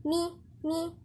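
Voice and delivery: مي with a clear "ii"; careful, clean "mii" drill; full kasra. Shown as a demonstration. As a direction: give each مي a true "i" vowel. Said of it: "لازم نحقق الكسر".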